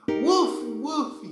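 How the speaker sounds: high loud playful woof; dog barking. Pretend. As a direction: bark like a puppy.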